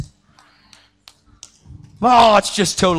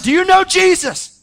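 urgent retold plea; 12 semitones higher, 4 dB louder than usual. Preacher pressing hurt biker.

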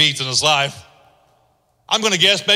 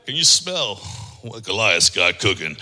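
the Rock's catchphrase; 11 semitones lower, 5 dB quieter than usual. Retold or imitated. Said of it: "He's like".

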